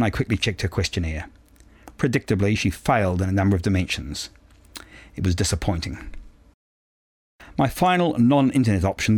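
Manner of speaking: measured, precise audiobook reading; composed novel narration with careful phrasing; story narration. A narrator's reading. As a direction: read it aloud as a first-person story. Reads a novel aloud.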